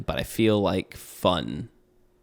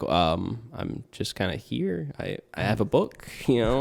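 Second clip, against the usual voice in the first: perplexed. Acted. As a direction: play a sheepish, puzzled game master, halting as you go. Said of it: "the D Ms are normally perplexed".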